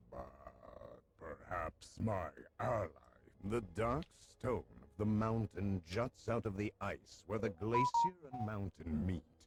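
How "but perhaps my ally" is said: deep, rumbling giant voice from low down. Narrator voicing the frost giant answering the adventurers, Rungnir's rumbling voice. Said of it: "Rungnir rumbles".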